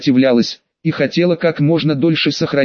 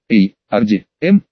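awkward mumble; 6 semitones lower than usual. Acted. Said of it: "неловко промычал юноша".

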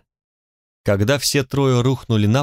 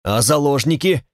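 barking; 3 semitones higher than usual. Acted. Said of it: "рявкнул начальник".

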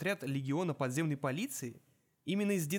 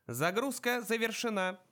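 slow, proud metallic announcement; a gadget announcing with a touch of pride; металлический голос; 8 semitones higher than usual. A narrator's reading. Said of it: "С лёгким оттенком гордости возвестила коробочка". (металлический голос с ноткой гордости)

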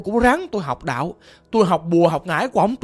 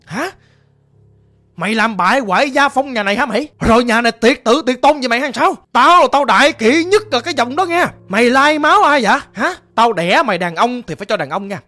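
a mildly raised, scolding father's voice; retold father's scolding. Caller imitates father cursing him, mild mock anger. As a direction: imitate the father berating his son, half-heartedly. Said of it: "Ổng chửi tôi vậy đó".

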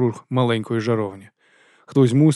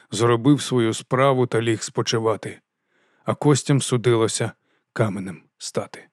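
poem recital. A narrator's reading. Narrator reciting the Jhaampe verse, measured. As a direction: recite it like an old ballad.

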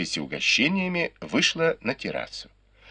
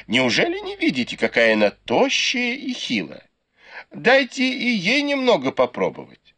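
put-on old matriarch's voice; 13 semitones higher than usual. Grandmother continues speaking.

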